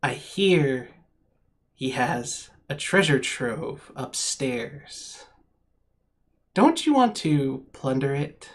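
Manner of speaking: whispering imp voice. Game master voices an imp coming up to a player; little devilish whisper. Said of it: "starts whispering to you in its little devilish voice".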